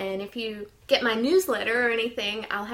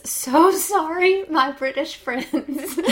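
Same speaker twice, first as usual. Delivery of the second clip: laughing; 6 semitones higher, 8 dB louder, slower than usual. Real, not acted. Laughing apology after bad accent.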